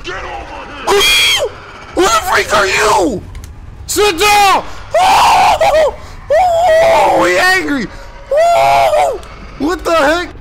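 high, loud panicked yelling; frantic screaming. Real, not acted. Player fighting off a sudden monster attack, frantic screaming.

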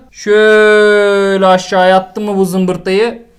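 slow mock musing. Real, not acted. Mock musing over figure.

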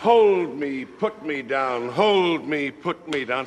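high, loud mimicry of her pleas; sarcastic husband parroting his wife; mocking his wife. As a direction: throw her words back in a whiny voice. Husband mocks wife's words.

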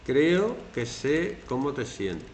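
a slow, sincere line of comfort; reassuring and gentle, taking your time; slow, tender comfort. Shown as a demonstration. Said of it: "un poquito más".

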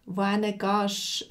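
slow, careful Swiss German "wohin gehst"; Swiss German demo. Shown as a demonstration. Teacher showing learners Swiss German, slow and clear. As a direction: spell out "wohin gehst" slowly, Swiss style. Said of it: "wohin ist".

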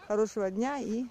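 high, cheery sing-song hello; sing-song greeting. Real, not acted. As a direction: chirp it to the viewers.

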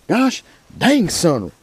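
very high sudden exclamation; squeaky high burst of amazement; surprised. Real, not acted. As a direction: caught off guard. Surprised by big crappie.

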